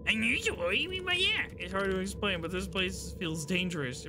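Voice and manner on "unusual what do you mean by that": high, loud shocked asking; alarmed question. Acted. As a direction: sound startled and worried.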